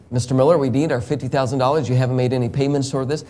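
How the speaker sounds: fast, businesslike creditor. Pretend. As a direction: rattle it off like a debt collector on the phone. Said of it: "they just keep calling me".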